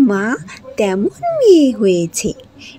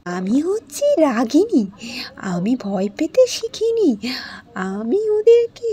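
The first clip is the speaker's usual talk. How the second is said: whispered, steely defiance; defiant whisper; 2 semitones higher, slower than usual. Acted. Ragini assuring her friend she fears nothing, whispered. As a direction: breathe it like a vow.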